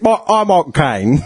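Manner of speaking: laughing Cockney impression; Michael Caine. Imitating the actor for a talking car, playful Cockney accent. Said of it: "You need that accent in your car".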